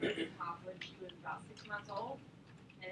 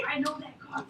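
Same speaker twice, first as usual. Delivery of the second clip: imitating dad; 5 semitones higher, 8 dB louder than usual. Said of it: "My dad was like".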